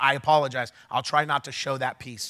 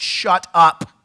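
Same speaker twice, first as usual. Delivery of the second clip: a curt, loud "shut up" to a protester; retold sharp command; 3 semitones higher, 8 dB louder than usual. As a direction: snap it out as a loud order. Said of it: "And I said".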